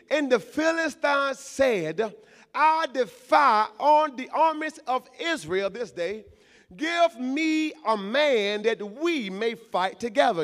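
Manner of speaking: slow unison scripture reading; congregational reading. Acted. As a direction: read it out together with the church.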